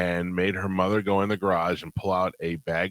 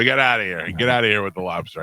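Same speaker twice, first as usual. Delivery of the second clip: dismissive; 5 dB louder than usual. Retold or imitated. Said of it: "I go".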